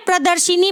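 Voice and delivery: प्रदर्शिनी with "shi" in place of "sha"; common mispronunciation. Shown as a demonstration. Teacher quoting how we wrongly read it, shi-ni ending. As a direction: sound an i after the sh in प्रदर्शिनी. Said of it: "जो कि गलत है".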